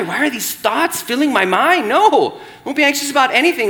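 half-joking panic, rushing the words; mock anxious self-talk. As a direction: play the panicked inner voice, hammed-up. Acting out anxious racing thoughts.

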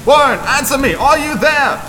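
high, loud frantic calls; desperate screaming. A narrator's reading. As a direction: scream his name down the line.

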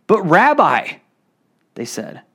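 measured reading of the Gospel to the congregation; scripture reading. Acted. Pastor reading John eleven to the church, measured. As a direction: read it out like a lesson from the pulpit. Preacher reads verse three onward.

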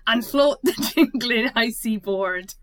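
attempted Scottish accent. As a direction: stumble through the poem in a poor Scottish accent. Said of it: "I can't do Scottish".

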